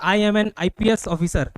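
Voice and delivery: slow, firm "I am an IPS officer"; slow quoted line. Retold or imitated. Retelling a Telugu film officer's line, slowly. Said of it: "तो बोलता है".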